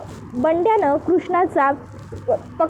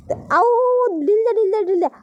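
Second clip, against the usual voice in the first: high, quick alarmed cry about the kite; sudden excited cry; 5 semitones higher than usual. Acted. Krishna suddenly cries out as her kite gets cut. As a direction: blurt it out fast, kite slipping away. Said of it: "Krishna पटकन असं बोलते".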